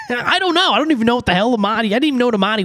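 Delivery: laughing, high and fast. Real, not acted. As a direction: laugh through the words. Laughs at own remark.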